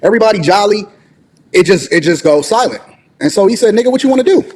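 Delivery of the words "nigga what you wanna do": mock threat. Nephew challenging again.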